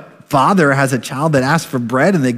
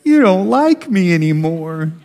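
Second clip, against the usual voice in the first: put-on hurt little girl; 5 semitones higher than usual. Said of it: "she just turned around".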